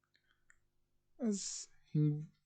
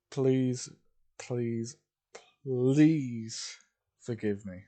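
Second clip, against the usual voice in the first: louder and louder begging please; pleading; 4 dB louder, much slower than usual. Real, not acted. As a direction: beg the viewers, building each please. Begging viewers to forgive yawning.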